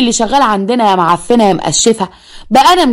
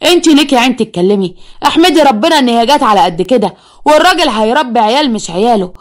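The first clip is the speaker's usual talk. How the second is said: mother berating; 4 semitones higher than usual. Acted. Mother berates daughter, sends her away.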